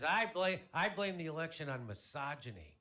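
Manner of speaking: mildly hammed-up upset, loud high start; mock outburst that settles as it goes; upset sister. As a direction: imitate an indignant sister, starting high and easing down. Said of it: "My sister's all upset".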